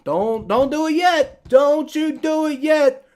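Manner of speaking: high, slow plea to hold off; high drawn-out don't you do it yet; mock pleading voice. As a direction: beg the pick to wait, hammed-up. Urging the pick to wait.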